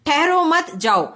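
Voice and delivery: "ठहरो मत" as one unit, then "जाओ"; pause after मत. Shown as a demonstration. Teacher showing the opposite meaning, with a pause after "मत". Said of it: "इसका opposite अर्थ निकलेगा".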